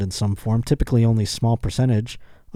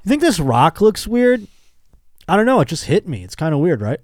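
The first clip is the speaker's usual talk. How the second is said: much higher, keen showing-off voice; eager mock excitement; 6 semitones higher, 3 dB louder than usual. Showing the odd rock to friends, eager and high. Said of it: "I'd be like".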